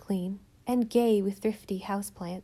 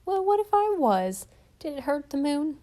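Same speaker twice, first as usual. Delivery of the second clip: defiant retort; 6 semitones higher, 4 dB louder than usual. A narrator's reading. Old woman defending moon faces.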